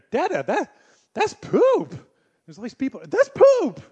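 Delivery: dad acting out his toddler yelling about poop in public; loud toddler voice. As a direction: announce it proudly to the whole crowd. Toddler announcing poop among people.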